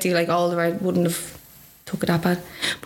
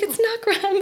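retorting; 14 semitones higher, slower than usual. Retold or imitated. Doctor retorting through tears.

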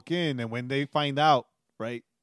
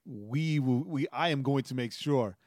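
imitating father-in-law. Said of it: "my father-in-law said it".

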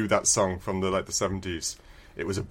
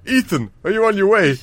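higher-pitched mock caller voice; acted radio caller; 8 semitones higher, 4 dB louder than usual. Teammate calls the agent on his mission, mock caller voice. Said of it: "he would call you and say".

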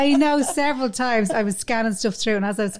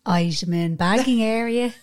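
checkout voice. Pretend. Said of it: "Give us your audition".

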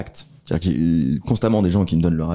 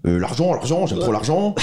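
higher mocking imitation of Romain; Romain impression; 5 semitones higher than usual. Imitating his cohost Romain for the podcast, mocking and higher. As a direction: caricature a friend who loves money, pitched up. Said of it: "Prends l'accent de Romain".

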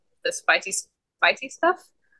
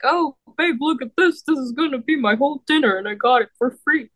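mock girlfriend voice; 4 semitones higher than usual.

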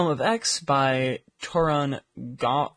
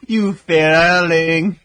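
slow, drawn-out mocking disbelief; mock outrage; 6 semitones higher, 13 dB louder, much slower than usual. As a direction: stretch it out in mock shock. Teasing sibling over a B.

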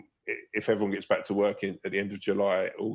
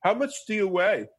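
mock woman's voice, much higher; abseil instructor woman; 12 semitones higher, 4 dB louder than usual. Instructor asking his weight, in a higher mock voice. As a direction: imitate the instructor, pitched way up. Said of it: "And she was like".

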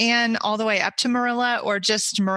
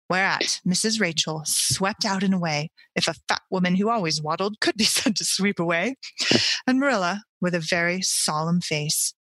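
steady storyteller read of the chapter; story reading; 2 semitones lower than usual. A narrator's reading. Reads the book chapter aloud.

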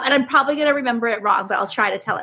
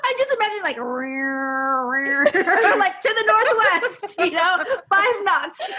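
laughing; 7 semitones higher than usual. Real, not acted. Laughing pirate imagining.

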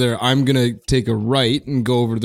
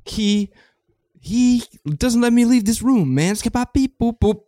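hip cat voice; 11 semitones higher than usual. Acted. Scatman character voice.

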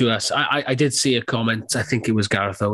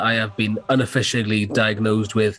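blocked nose from a cold; stuffy nose. Real, not acted. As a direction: talk through a stuffy nose. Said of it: "Apologies if I sound a bit under the weather".

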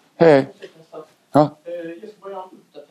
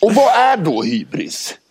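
Mårten Andersson impression; 5 semitones higher, slower than usual. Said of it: "Kör nu, Mårten Andersson".

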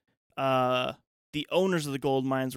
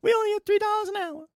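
put-on high, laughing old-timey miner; 5 dB louder than usual. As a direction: play a poor miner cracking up.

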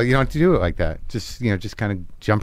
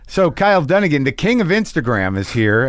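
radio host voice. Pretend. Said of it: "I'm still in character".

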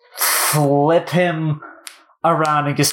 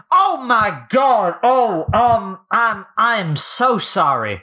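higher, stretched-out "oh my god"; startled apology; 5 semitones higher than usual. Acted. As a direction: stammer out a mortified apology. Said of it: "Derek would just be like".

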